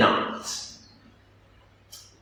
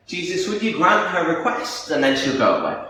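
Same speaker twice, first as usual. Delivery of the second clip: kindly request. Shown as a demonstration. Disciples intercede for the woman, mildly kindly. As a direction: ask it as a considerate favour. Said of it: "Or they might be saying".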